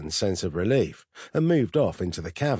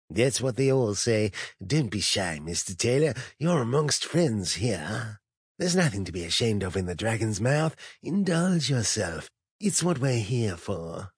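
sinister host voice; 3 semitones higher than usual. Acted. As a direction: lure him in with silky menace. Sinister host tempting an addict.

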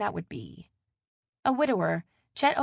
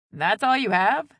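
louder, pitched-up question; taken aback and wanting more; surprised; 4 semitones higher, 9 dB louder than usual. A narrator's reading. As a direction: ask it in mild disbelief. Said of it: "Jacqueline asked in surprise".

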